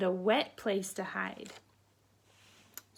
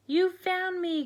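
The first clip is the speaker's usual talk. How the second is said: much higher, louder squeaky duckling; duckling's cry; 9 semitones higher, 5 dB louder than usual. Acted. Duckling found by Mama, squeaky cry. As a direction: squeak out delighted. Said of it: "cried Waddle".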